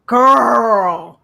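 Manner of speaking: collective shout. Retold or imitated. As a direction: cry it out in shock. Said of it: "let out that collective".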